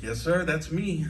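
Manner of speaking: slow, lightly put-on white American accent; polite white speak to an officer; a hint of mock white American accent. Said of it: "go into white speak mode".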